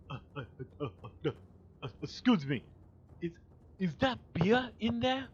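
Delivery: halting, hesitant, ending high; mock timid question rising high; stammering coworker. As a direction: stumble over it like the nervous dim guy. Mocking coworker asking about beer.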